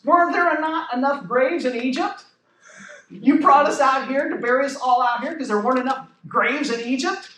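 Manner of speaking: mock-incredulous sarcastic question, rising at the end; lightly acted sarcastic complaint. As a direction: imitate a frustrated crowd's sarcasm. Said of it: "I just love that sarcasm".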